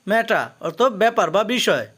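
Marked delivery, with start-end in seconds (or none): 0.1-0.5 ম্যাটার ending in an open "a", no R; silent final R. Shown as a demonstration. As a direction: leave the last R off ম্যাটার. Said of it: "লাস্টের আরের উচ্চারণ হবে না". (ম্যাটার, শেষের র উচ্চারণ ছাড়া)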